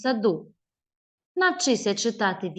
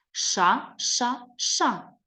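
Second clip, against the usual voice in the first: hushing ша; 3 semitones higher, much slower than usual. Shown as a demonstration. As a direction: hush the wind with ша. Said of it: "Виразно прочитай".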